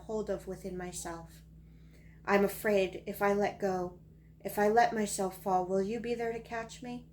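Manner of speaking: emphatic poetry recital, line openings pushed; poem reading. Acted. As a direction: recite it with weight on each new phrase. Reads own poem aloud.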